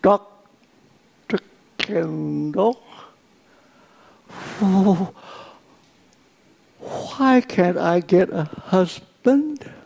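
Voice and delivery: lightly voiced German accent, slow; a hint of a German accent with a halting speech impediment. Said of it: "in her German accent and with her speech impediment".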